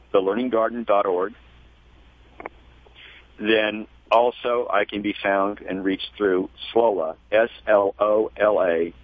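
careful, measured contact details; unhurried, with pauses between items; slow and clear. Real, not acted. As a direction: spell the name out letter by letter. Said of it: "say it slowly and clearly".

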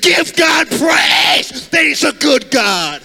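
shouted, half-sung sermon climax; preaching at full force. Acted. Preacher testifying to the crowd, full-force shouting.

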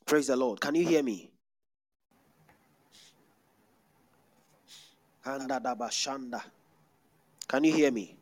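loud call to the crowd; loud call to the congregation. Real, not acted. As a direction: call out to the back rows. Calling out to the congregation.

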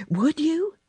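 high, whispered and tender; soft, sweet way. A narrator's reading. Mary asking the robin, a soft high whisper. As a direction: coax it gently, barely a breath. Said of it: "not say it in her hard little voice, but in a soft, sweet way".

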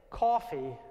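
coffee said the New York way, long open aw; his own New York coffee; New York accent. Retold or imitated. Teacher telling the class story in New York accent. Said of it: "the way I was saying it with my New York accent".

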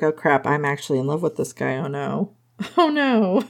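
playing Rosie's horror at falling in love, laughing through it; mock panic with laughter. Rosie realising she loves him, in laughing mock despair. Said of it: "Rosie at this point is like".

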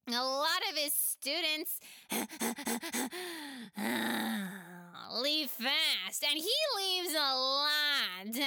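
put-on a playful kid offering help; giggly child voice. Pela offers to help friends, giggly child voice.

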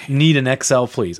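lightly hammed-up Southern accent. Host reading a Texan's shirt order, Southern accent. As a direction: read it with a put-on Southern twang. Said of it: "my southern".

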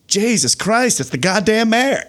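high-pitched exasperated New York outburst; thick New York accent. Retold or imitated. Police chief spots the booed mayor, imitated New York accent. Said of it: "thick New York accent".

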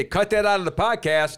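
high, loud panicky plea; imitating nervous self. Calling his cohost in a panic, high loud plea. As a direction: beg in a high worried voice. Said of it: "I would call you, wouldn't I, and say".

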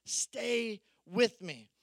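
slow, drawn-out plea. Shown as a demonstration. Pastor urging his congregation, slow earnest plea. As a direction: stretch every word out, pleading. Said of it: "So I'm just telling you".

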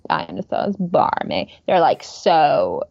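imitating a lazy Valley Girl; slow, bored creaky drawl; vocal fry. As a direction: echo it with listless fry. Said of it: "vocal fry thing".

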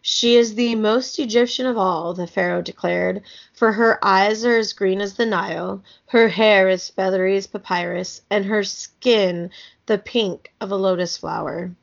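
measured, clearly phrased storybook reading; story narration. A narrator's reading. Reading an Egyptian kids' book aloud, storybook narration. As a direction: read the tale aloud with care.

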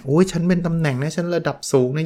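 lightly acted self-important voice; mock self-importance. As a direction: play someone clinging to rank. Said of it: "ยึดมั่นถือมั่นเยอะนะ อ่ะ สมมติตำแหน่ง".

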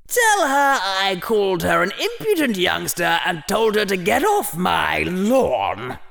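put-on high, creaky old hat, slowing at the end; a cranky ancient hat shooing kids away; grumpy old hat voice. The hat speaks in its own voice.

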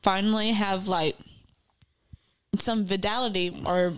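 talking while chewing; words around a mouthful of fries; mouth full. Real, not acted. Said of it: "I got a mouthful of french fries".

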